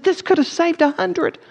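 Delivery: slow, high, anguished cry; anguished lament. Retold or imitated. Schindler holding up his watch, slow anguished lament. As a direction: mourn the lives he could have saved. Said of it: "And he said".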